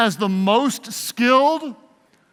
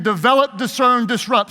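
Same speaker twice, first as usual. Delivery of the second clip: Develop, discern, disrupt diucapkan tegas satu per satu; word drill. Shown as a demonstration. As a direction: ucapkan tiap kata dengan jelas. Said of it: "Let's say it again".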